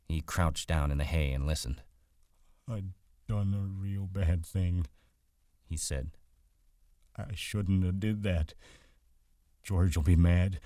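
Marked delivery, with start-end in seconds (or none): 2.7-10.6 slow, higher voice full of dread; frightened simple man. Acted. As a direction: confess slowly like a scared big child. Lennie, frightened.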